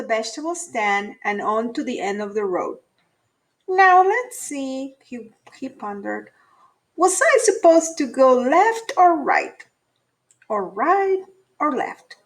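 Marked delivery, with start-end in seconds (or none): 3.7-12.2 bunny wondering which path to take; lightly voiced bunny. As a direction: wonder aloud like a confused little rabbit. Buddy ponders at the fork.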